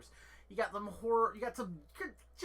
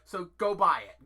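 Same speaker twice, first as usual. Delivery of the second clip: urging; 9 dB louder than usual. Real, not acted. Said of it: "urging viewers to buy".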